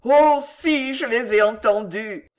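loud, warm outburst; reply fervently, starting high; heartfelt, eager insistence; ardent. A narrator's reading. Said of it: "répliqua chaleureusement monsieur Tupman".

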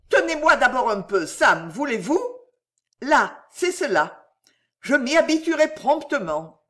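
high, urgent skater's plea; nervous pleading. A narrator's reading. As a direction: beg for support, then reassure yourself. Nervous skater begs to be held.

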